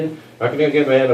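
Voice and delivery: hushed second take, calming himself down; quietly repeating it to himself. Retold or imitated. Comic telling his own nerves, quietly repeating the line. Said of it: "And I'm like".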